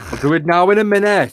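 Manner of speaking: mock Welsh accent. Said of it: "They're gonna start on the fucking Welsh".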